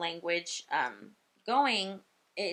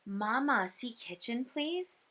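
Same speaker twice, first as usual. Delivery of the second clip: put-on modelling for a child; 3 semitones higher, 4 dB quieter, slower than usual. Speech pathologist coaching a little girl, softly modelling. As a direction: model it simply for a child, lifting the end. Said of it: "And I said".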